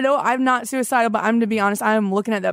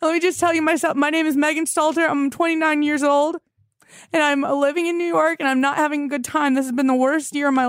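higher-pitched, flustered rush of confession; freaking out; 4 semitones higher than usual. Acted. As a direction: blurt it all out in a panic. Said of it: "I'm freaking out right now".

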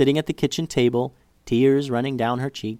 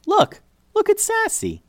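excited. Acted. Child excitedly pointing.

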